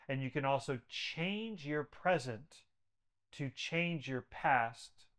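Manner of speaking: slow, deliberate restatement, the word change leaned on; slowed repeat. Shown as a demonstration. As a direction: spell it out slowly so the host gets it. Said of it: "I'll say it as many times as it needs to".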